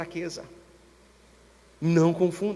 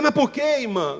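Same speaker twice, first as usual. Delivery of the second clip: surprised question; 7 semitones higher, 5 dB louder than usual. Retold or imitated. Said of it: "Eu falei".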